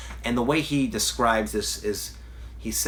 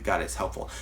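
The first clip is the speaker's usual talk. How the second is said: normal talking voice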